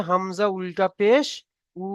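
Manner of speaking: slow spelling-out, a pause, then a long "উ"; drawn-out vowel. Shown as a demonstration. Teacher answers own pronunciation question, final "উ" drawn out. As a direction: hold the final "উ" as one long, steady vowel. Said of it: "উল্টা পেশের উচ্চারণ কি".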